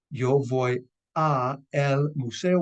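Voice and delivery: slow, separate yo voy a el museo; uncombined form. Shown as a demonstration. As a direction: say a el museo slowly, a and el apart. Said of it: "which combines to".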